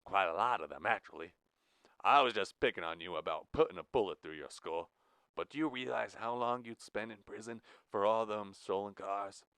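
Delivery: lightly voiced Iowan accent, level and cool; Midwestern drawl. Jack revealing his real Midwestern accent to Blue. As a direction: drop the act into a Midwestern accent. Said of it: "an American-born and American-raised Midwestern drawl".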